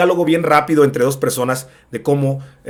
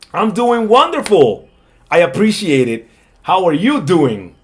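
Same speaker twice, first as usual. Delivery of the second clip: slow, slightly higher second speaker; thinner voice; 4 semitones higher, 5 dB louder, slower than usual. Shown as a demonstration. Other person answers how they are doing, thinner voice. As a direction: answer slowly in a lightly thinned voice. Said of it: "un poquito más delgada en las otras".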